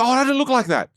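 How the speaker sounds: hammed-up recoil at your own face; mock dismay. Seeing yourself on video, mock dismayed high whine. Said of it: "And they go".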